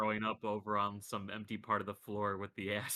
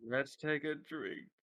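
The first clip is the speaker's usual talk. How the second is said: slow, higher mock-pirate echo of the captain; 6 semitones higher, slower than usual. Player slowly echoes the captain's toast in mock pirate voice. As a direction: drag it out like the old pirate.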